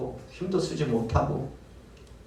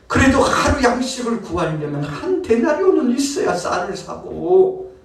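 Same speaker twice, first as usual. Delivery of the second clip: urging; 9 semitones higher than usual. Acted. Master's insistent coaxing of worker.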